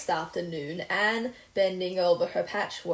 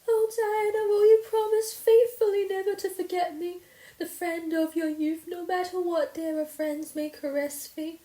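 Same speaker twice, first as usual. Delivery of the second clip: high, louder dramatic pleading; impassioned plea; 11 semitones higher, 5 dB louder than usual. A narrator's reading. Anne begging Diana never to forget her, impassioned. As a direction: beg her with theatrical passion.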